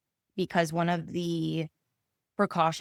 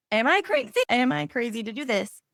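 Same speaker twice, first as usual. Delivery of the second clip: anxious; 6 semitones higher, 4 dB louder than usual. Retold or imitated. Her own messages retold.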